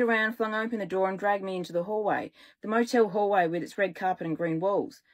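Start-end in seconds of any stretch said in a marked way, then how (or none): none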